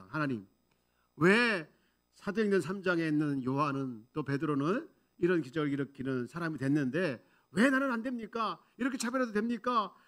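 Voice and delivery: acted protest to God, building in pitch; complaining, arguing prayer. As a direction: demand an answer from God, aggrieved. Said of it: "소연하면서 또 막 따지면서 하나님께 기도".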